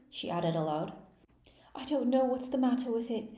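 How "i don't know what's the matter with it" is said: melancholy. A narrator's reading. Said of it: "in a melancholy voice".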